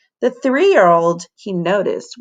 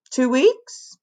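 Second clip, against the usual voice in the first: higher whining moan; 6 semitones higher than usual. Acted. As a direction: moan it unhappily. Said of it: "Everyone but Emberly moaned".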